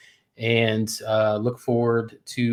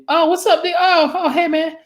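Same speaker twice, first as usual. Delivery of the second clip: much higher, louder, bright friendly hello; sudden cheerful greeting; 4 dB louder than usual. Retold or imitated. Answering a best friend's call mid-fight, overly cheerful hello. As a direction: snap from fury into instant cheer.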